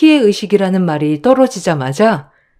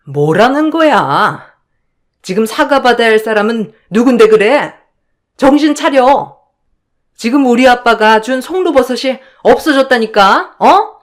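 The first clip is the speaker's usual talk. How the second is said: higher, contemptuous accusing voice; scornful sister-in-law; 5 semitones higher than usual. Acted. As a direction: sneer down at the younger in-law. 형님 snaps back. (높고 비아냥대는 형님 목소리)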